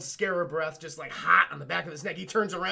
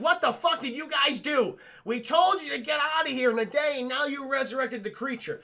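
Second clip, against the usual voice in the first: raised, indignant higher voice; mock angry scolding; 6 semitones higher than usual. Magi scold the group for waking the creature, mock angry. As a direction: scold them in imitation outrage.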